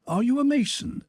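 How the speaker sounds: high-pitched, tentative inquiry; curious question. A narrator's reading. Pierre asking the stranger, curious inquiry. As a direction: lift the voice well up to ask. Pierre asks about the ring.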